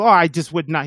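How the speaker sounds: lightly voiced French club owner; badly imitated French accent; horrible Victor impression. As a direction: attempt a slight French accent. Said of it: "this is a horrible Victor impression".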